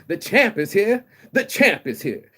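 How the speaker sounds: loud, high proclamation; big ringside boast; champ's boast. Acted. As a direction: crow it like a boxing champion. Quoting Ali's boast to the neighborhood.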